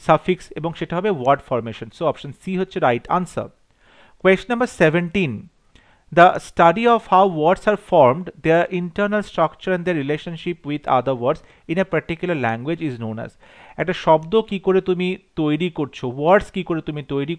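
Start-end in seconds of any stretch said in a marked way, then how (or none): 4.2-13.3 reads the exam question slowly and deliberately; dictating each English word clearly to the class; slow question reading. Acted. Teacher reading a multiple choice question to students, slow and deliberate.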